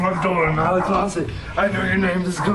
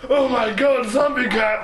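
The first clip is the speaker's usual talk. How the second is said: high, loud alarmed cry; panicked; 6 semitones higher, 5 dB louder than usual. Acted. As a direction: yelp it in sudden fright. Sees a zombie cat.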